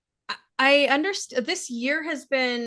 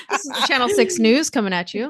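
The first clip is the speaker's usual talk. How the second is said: news anchor voice; 6 dB louder than usual. Acted. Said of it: "my news anchor voice".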